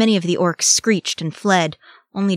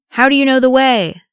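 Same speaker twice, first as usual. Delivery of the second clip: loud, high demand; 8 semitones higher, 9 dB louder than usual. A narrator's reading. Boromir questions the route mid-fight, demanding. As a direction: demand an answer at full voice. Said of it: "demanded Boromir".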